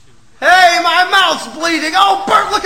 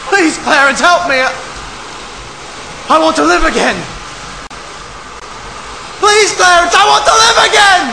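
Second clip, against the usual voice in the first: desperate pleading cries; 2 semitones higher than usual. Acted. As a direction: cry out to the sky for help. George begging Clarence to return.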